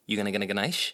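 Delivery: "ganache" in a low, imitated Belfast run-on; low mock attempt at clear "ganache"; broken-up English. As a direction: run "gonna get a ganache" together, low. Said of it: "break up our English so we can hear".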